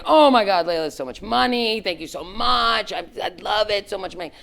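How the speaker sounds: high, effusive delighted thanks; gushing thanks. Retold or imitated. Second woman thanking boss for money, high gushing. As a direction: overflow with gratitude.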